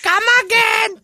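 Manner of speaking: faint put-on Indian clerk goodbye; bad Indian accent. Clerk saying goodbye in a bad Indian accent. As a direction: send them off in a weak Indian accent. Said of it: "I can't do the accent very good".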